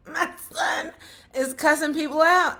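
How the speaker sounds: laughing in disbelief through the words; half-laughing, can't believe it; disbelieving laugh. Retold or imitated. Mother hearing her son cusses, laughing in disbelief. Mother shocked by school's complaint.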